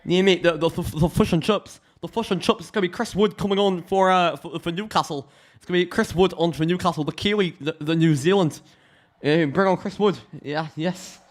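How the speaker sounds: high-pitched mock New Zealand accent; bad Kiwi accent. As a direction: commentate in a badly faked Kiwi accent. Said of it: "do a better Kiwi accent than that".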